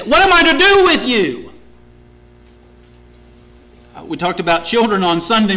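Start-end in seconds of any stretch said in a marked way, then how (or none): 0.0-1.5 high, loud exasperated cry; frustrated God. Acted. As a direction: throw up your hands in exasperation. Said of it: "he is frustrated".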